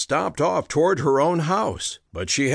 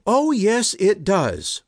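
sharp retort; 8 semitones higher, slower than usual. A narrator's reading. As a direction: bite back at him. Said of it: "she shot back".

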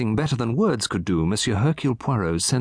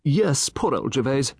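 sighing; 5 semitones higher, slower than usual. Acted. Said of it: "Mister Satterthwaite sighed".

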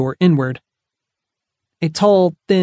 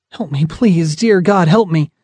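in pain; 2 semitones higher, 3 dB louder than usual. Acted. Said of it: "the pleading sound of a suffering soul".

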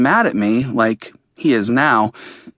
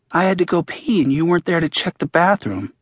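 lightly voiced boy repeating himself, a touch higher; voicing Max; 5 semitones higher than usual. A hint of the boy's voice, repeated insistently. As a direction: Max repeats the complaint because it went unanswered. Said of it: "Max says again".

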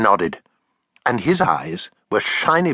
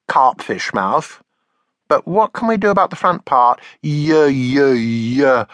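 put-on child voice; 2 semitones higher, 3 dB louder, slower than usual. Taffy voiced by narrator.

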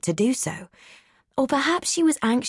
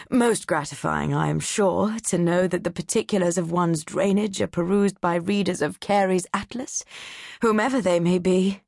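a hint of a condescending college man; pompous don. Doctor Nichols sneering at the atlas readers, lightly voiced.

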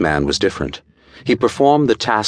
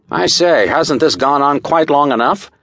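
high-pitched, jovial interruption; good-humoured protest in a raised pitch; laughing protest; 7 semitones higher than usual. A narrator's reading. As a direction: break in high and lively, amused. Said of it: "He was laughing".

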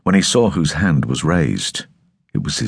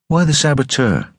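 sharply questioning, pitched up; doubtful question; 9 semitones higher than usual. Acted. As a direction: challenge it with doubt.

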